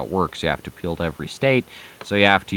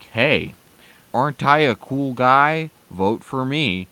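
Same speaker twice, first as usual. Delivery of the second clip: pitched-up, charismatic candidate pitch; hammed-up campaign charm, raised in pitch; mock charismatic; 6 semitones higher, 6 dB louder than usual. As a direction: play a cool guy asking for votes. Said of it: "charisma. He's not talking like".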